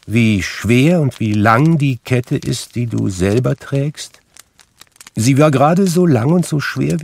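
a hint of ghostly reproach; admonishing ghost. A narrator's reading. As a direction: warn him gravely, then sink at the close. Narrator voices Marley's ghost.

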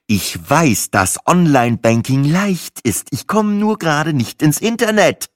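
gereizt, genervt, Worte betont; mühsam beherrschter Ärger am Telefon; angepisst. Acted. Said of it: "von verschnupft zu angepisst wechselte". (genervt und angepisst)

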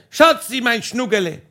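shouted sweet nothings from the roof; calling pet names. Retold or imitated. Husband on the roof calls down to wife, loving shout. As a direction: call it sweetly across the garden. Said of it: "Und ich hab geschrien".

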